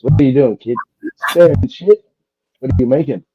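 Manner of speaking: baker questioning. Acted. Joke, baker questions kid.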